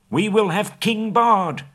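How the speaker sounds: high, loud and slow defiant cry; shouted reply. Acted. Townsfolk shouting back at the master, loud. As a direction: shout him down, stretching every word. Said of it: "the people near at hand shouted".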